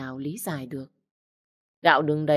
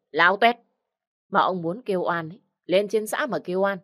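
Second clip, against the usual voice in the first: bossy village woman barking orders; harsh command; 3 semitones higher than usual. Acted. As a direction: order them about, contemptuous. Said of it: "ra lệnh". (ra lệnh gay gắt, đanh đá)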